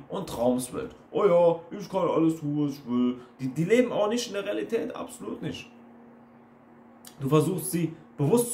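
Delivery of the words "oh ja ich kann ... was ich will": lightly mocking carefree dreamer; mock daydreamer. Coach mimics people living in their dream world, mock daydreamer. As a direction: imitate a self-satisfied dreamer. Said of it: "laufen die rum in ihrer eigenen kleinen Fantasie".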